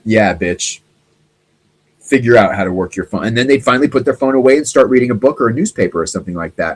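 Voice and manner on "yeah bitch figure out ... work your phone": smug gloat. Retold or imitated. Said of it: "I'm like".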